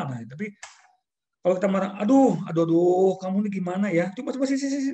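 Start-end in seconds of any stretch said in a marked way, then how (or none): 2.0-4.9 loud exasperated groaning scold; controlled anger. Shown as a demonstration. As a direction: fret and scold but keep it in check. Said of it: "itu kan kita marah, tapi marah yang terkendali".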